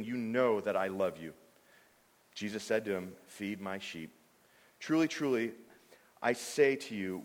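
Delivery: measured, lightly dramatized Bible reading; scripture reading. Acted. Preacher reading John twenty-one to the congregation, measured.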